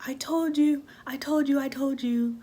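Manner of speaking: high-pitched imitation of nagging dad; mock I-told-you-so chant; scolding dad. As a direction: imitate a parent rubbing it in. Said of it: "he was like".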